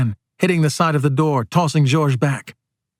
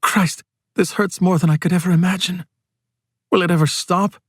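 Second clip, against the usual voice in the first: pained thought; 4 semitones higher than usual. Acted. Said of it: "Rosario Vasquez thinks".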